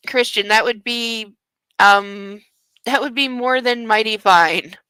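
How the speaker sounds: drawn-out saccharine delivery; sugary overdone line; mocking mock-sweet. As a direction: read it as cheesy romance. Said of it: "Who the hell talks like this?".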